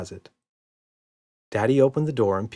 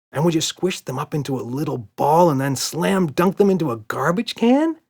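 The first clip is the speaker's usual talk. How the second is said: put-on little girl voice; 6 semitones higher, 5 dB louder than usual. A narrator's reading. Emma voiced.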